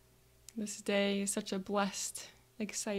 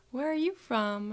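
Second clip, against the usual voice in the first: friendly call, higher and louder; 4 semitones higher, 6 dB louder than usual. Retold or imitated. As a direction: call out cheerfully to the kid. Calling out to a kid.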